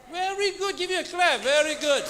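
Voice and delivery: high, bright burst of praise; excited praise. Real, not acted. Teacher cheering a student who got it right, excited.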